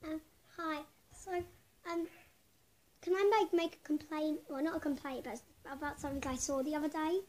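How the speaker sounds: put-on prank caller faking an Australian accent. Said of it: "I'll do my Australian accent".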